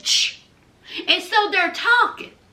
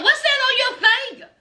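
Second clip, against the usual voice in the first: higher, fast Deontay voice; mock questioning ex; 6 semitones higher, much faster than usual. Ex-fiancé grilling Nicole about her ring, higher and fast. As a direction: rattle it off high and quick.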